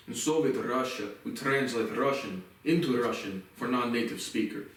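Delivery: lightly put-on Russian accent; a hint of a mock Russian accent. Reviewer joking about Russian-to-Russian dictionaries, in a light Russian accent. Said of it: "that was my Russian accent".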